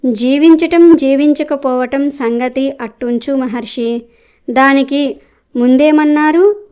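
a proud tree scoffing back at the sage; boastful loud voice. Acted. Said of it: "పెద్ద గొంతుతో అరిచినట్టుగా మాట్లాడింది".

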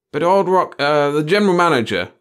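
high, loud grumbling protest; complaining. A narrator's reading. Chief fretting about his boss to the boys, complaining. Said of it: "the chief complained".

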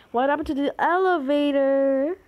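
loud insistent question. Real, not acted. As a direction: demand an answer. Repeated louder, rising.

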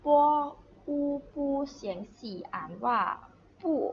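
spelling out "ปู่" sound by sound, ending on a falling fourth tone; fourth-tone demonstration. Shown as a demonstration. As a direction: teach "ปู่" with a firm falling tone.

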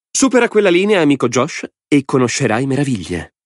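high, gleeful madman's voice; a mad lord savouring the game; Lord Alvin. A narrator's reading. (voce alta di signore folle e allegro)

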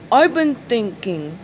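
slow monotone delivery; flat, unvarying monotone. Acted. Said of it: "said in a monotone voice".

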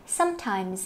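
"sometimes" with its final s sounded; clear final consonant. Shown as a demonstration. Teacher showing the ending of "sometimes", demonstrative. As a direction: finish "sometimes" on an audible ending. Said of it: "âm cuối".

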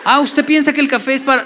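esposa insinuante, más aguda y fuerte; esposa pícara. Retold or imitated. Esposa insinúa otra vez. (la esposa le pregunta al marido, voz pícara más aguda y fuerte)

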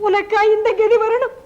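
loud, stricken outcry; shocked dismay. Acted. Wife shocked at her friend's ruin, loud dismay. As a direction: cry out in disbelief.

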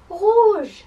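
high, loud burst on the word; really loud voice. Shown as a demonstration. Teacher leads children repeating French colours, loud voice. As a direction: shout it out for the class. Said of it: "say it in a really loud voice".

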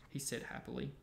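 clear, measured audiobook-style reading; story narration. A narrator's reading. Reading a wizard school chapter aloud to a partner, story narration. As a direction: read it out as a bedtime story.

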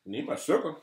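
high sing-song plea for sugar; high playful voice. Pretend. Playfully begging for a kiss.

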